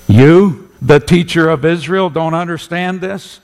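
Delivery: high, loud incredulous jab; mocking derision. Jesus to the teacher of Israel, mocking disbelief. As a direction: scoff at him in disbelief. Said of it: "there was mocking derision in that room".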